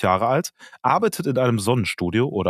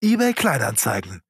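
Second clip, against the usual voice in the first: übertrieben fröhliche Werbeansage, langsam und höher; Werbesprecher; 3 semitones higher than usual. Pretend. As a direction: preis die Kamera an wie im alten Werbespot. Parodierte Werbeansage. (fröhlicher Werbesprecher aus den Fünfzigern)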